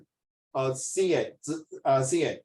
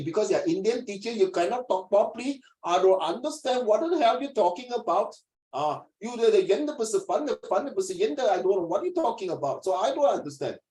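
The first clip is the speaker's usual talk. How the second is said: higher-pitched acted exasperation; mock student complaint; 4 semitones higher than usual. Student telling a teacher they cannot be understood, mock exasperated. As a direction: play a pupil griping at the teacher.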